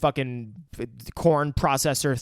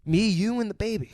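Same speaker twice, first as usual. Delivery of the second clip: mock cheery parent; 7 semitones higher, faster than usual. Mocking the couple, pretend dialogue.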